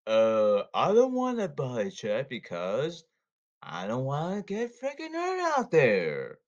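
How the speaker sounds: sarcastic whiny player voice, slowing down; mock a scared player making excuses. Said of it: "I'll be sarcastic here".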